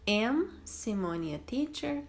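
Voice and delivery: slow trial question; trying option one. Shown as a demonstration. Teacher testing verb choices with the class. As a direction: test the first option slowly. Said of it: "Eu falo".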